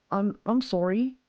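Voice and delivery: slow, tentative Australian "sorry"; attempted Aussie accent. Shown as a demonstration. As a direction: try an Australian accent, rising questioningly. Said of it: "was that, was that close?".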